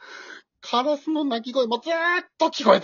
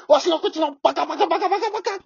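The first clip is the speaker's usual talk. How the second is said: comic self-scolding; 2 semitones higher, faster than usual. Acted.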